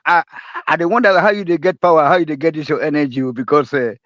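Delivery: ordinary talk, nothing marked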